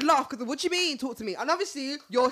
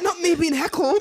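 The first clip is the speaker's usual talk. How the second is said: laughing; 5 semitones higher, 8 dB louder than usual. Retold or imitated. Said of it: "I said".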